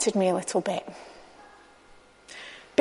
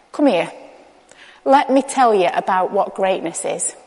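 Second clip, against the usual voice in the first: calm, slightly lowered, kindly voice; gently drawing in; 3 semitones lower than usual. Retold or imitated. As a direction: draw them in to teach, unhurried. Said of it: "he kind of draws them in".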